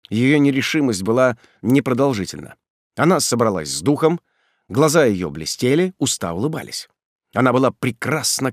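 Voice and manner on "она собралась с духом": usual speaking voice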